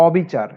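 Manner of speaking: অবিচার starting on open ɔ, "ɔbichar"; unchanged open vowel. Shown as a demonstration. Teacher giving an example of the rule, open-vowel অবিচার. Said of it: "অবিকৃত থাকে".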